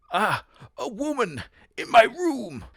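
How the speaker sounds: high, slow, hammed-up startled voice; slow high-pitched mock fright; high ghost voice. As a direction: squeal it out slowly, mock alarm. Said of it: "I hear another voice".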